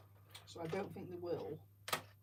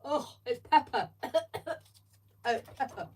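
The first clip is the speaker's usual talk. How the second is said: disgusted; 7 semitones higher, 10 dB louder than usual. Real, not acted. Tasting a pepper jelly bean.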